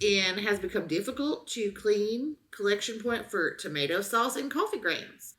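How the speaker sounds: deadpan dramatic review reading; mock-serious review reading. Host reads a trash can review to her co-host, deadpan dramatic.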